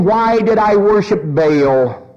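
slow, drawn-out acted wail of regret; lamenting cry. Jezebel in hell regretting her idol worship, drawn-out mock lament. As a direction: stretch out a mildly anguished question. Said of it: "if we could hear her cries".

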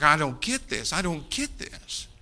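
put-on a young man who can't take it in; retold anguished disbelief; distraught. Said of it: "he's just distraught".

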